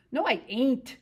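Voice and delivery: earnest. Acted. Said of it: "Lenny explained earnestly".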